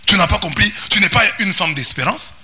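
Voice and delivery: rising pulpit exhortation; preaching at full force. Acted. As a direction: preach it out over the music. Sermon rises over music again.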